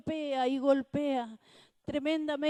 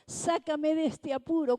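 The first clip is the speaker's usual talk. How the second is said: raised, pitched-up cry of "sácame de este apuro"; urgent plea; 4 semitones higher, 5 dB louder than usual. Retold or imitated. Kneeling man crying to God for rescue, raised and urgent. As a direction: beg to be pulled out, voice up high.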